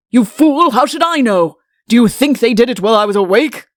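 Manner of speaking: king snapping at chancellor; irritated outburst. A narrator's reading. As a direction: bark it at the fool.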